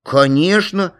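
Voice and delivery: put-on children's eager agreement; eager answer. A narrator's reading. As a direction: chime in eagerly like a kid.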